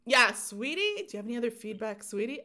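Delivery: whispered, mocking sweetie; a hint of a mocking sweet caller. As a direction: tease the caller's pet name in a hushed mock. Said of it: "And I went".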